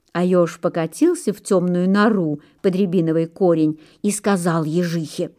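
plain reading voice

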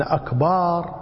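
أكبار with a long aa before the final r; added alef. Shown as a demonstration. Teacher explains the faulty word, long alef drawn out. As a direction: stretch the second vowel of أكبار. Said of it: "بالألف".

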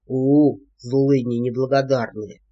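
low voiced gruff scolding; scolding giantess. A narrator's reading. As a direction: shake a fist and growl it. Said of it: "погрозила им кулаком Алия". (ворчливо, низким голосом)

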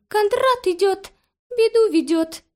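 very high, sing-song chirping bird voice; little bird. A narrator's reading. Small grey bird warning the girl at the window, sing-song. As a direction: chant it like a tiny bird.

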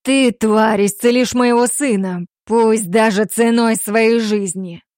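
loud, slow menace; furious threat. Acted. Damir forcing the girl to heal his son, angry. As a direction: spit the threat at her.

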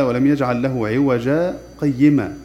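slow, measured recitation of the verse with a brief pause; slow Quran recitation. Shown as a demonstration. Teacher recites the verse for students, slow and measured. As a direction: recite it slowly as a model for students. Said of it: "نسكت سكتة لطيفة بغير تنفس".

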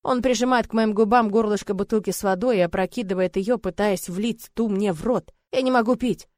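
plain reading voice

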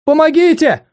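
high, desperate muffled cry; stifled cry for help. Acted. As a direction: cry out for help through a hand. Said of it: "сдавленный крик разорвал тишину".

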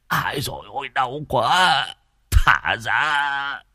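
stammering, pained pleading; whimpering plea. Acted. Beaten Hồng pleads with the mob to free him, whimpering. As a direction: beg them through the pain.

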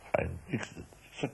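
usual speaking voice

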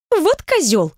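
высокий возмущённый выкрик; брось с негодованием; возмущённо. Acted. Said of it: "возмутился Колобок". (подруга возмущается бывшим Софии)

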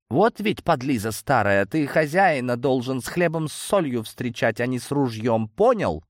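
high, indignant telling-off; angry scolding. Acted. Superheroine tells off the old man for the gun, indignant. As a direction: scold briskly, rising to a sharp final demand.

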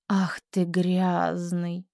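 whispered, slow, disgusted; quiet disgust. Shown as a demonstration. Teacher whispers the repeat with disgust. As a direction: breathe it out in disgust. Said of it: "Тише, с брезгливостью".

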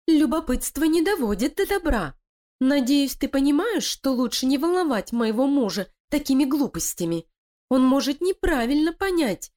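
high, sly voice of a plotting wife; scheming female voice. Acted. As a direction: persuade her partner, cold and cunning. Лилия угрожает крысе. (коварная интриганка)

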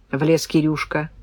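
ordinary delivery

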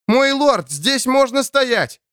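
high, slow call across the bog; shouting. Acted. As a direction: call out over the rain to the lord. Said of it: "едва слышно кричал охотник".

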